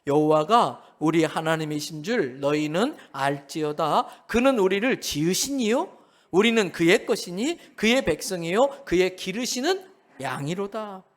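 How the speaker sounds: slow, solemn psalm reading; scripture reading. Shown as a demonstration. Pastor reading the psalm aloud with the congregation, slow and solemn. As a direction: read it out slowly. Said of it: "또 읽어볼까요".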